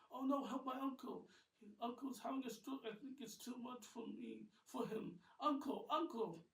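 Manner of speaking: high, loud cry for help; panicked plea. Acted. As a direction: call out in alarm. Nate panics over uncle's stroke.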